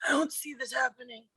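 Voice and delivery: whispered aside; hushed worried aside. Real, not acted. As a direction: whisper your doubt to yourself. Player doubting roll.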